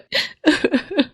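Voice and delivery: a brief high sob that breaks out; short sob. Acted. Mother sobbing over the family's troubles. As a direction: let one choked sob escape. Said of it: "please मत रो".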